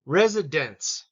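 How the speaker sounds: Residence with the last syllable dense stressed; slow Residence, weight on dense; teacher's model, dense stressed. Shown as a demonstration. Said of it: "dense has the emphasis".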